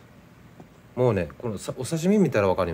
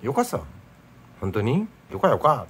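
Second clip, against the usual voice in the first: Nagasaki dialect; 4 semitones higher than usual. Shown as a demonstration. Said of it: "よかっていうのは長崎弁ですね".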